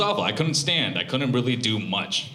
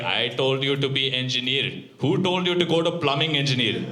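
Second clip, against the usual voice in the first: dad voice; 5 semitones higher than usual. Retold or imitated. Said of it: "he's just like".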